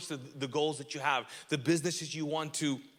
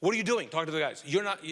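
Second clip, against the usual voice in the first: lightly acted annoyance at a younger brother; angry older brother; 3 dB louder, faster than usual. Older brother confronting David for talking to the men, mildly angry. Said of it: "Angry. He was like".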